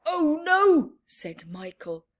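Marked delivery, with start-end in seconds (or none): 0.1-0.9 put-on alarmed kid. Michael alarmed.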